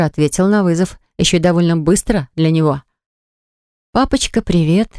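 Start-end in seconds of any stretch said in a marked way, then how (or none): 3.9-4.9 sugary sweet little voice; sweet-talking daddy, pitched up; honeyed voice. Acted. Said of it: "елейным голоском завожу я".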